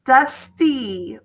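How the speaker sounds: "Dusty" as DUS, short gap, TEE; split into syllables. Shown as a demonstration. Teacher asking where E is heard, "Dusty" split as dus...tee. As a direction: break "Dusty" into its two syllables. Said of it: "Two syllables".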